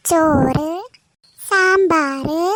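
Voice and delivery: proud announcing. Acted. Listing lunch dishes.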